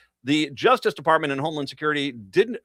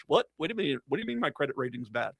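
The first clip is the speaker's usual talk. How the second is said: dismayed dupe; 6 dB quieter, faster than usual. Acted. Dupe discovers consequences.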